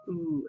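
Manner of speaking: "oo" said softly and held, a pure oo with no y; gentle drawn-out "oo" as in moon; oo sound demo. Shown as a demonstration. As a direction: model the "oo" vowel quietly. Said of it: "It's more of a oo sound".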